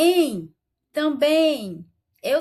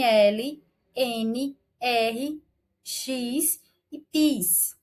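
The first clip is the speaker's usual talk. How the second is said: very slow dictation; much slower than usual. Shown as a demonstration. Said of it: "teacher dictates the endings".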